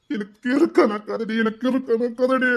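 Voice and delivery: slow, choked lament; grieving lover faltering; breaking down. Acted. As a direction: drag it out through tears. Man breaking down slowly.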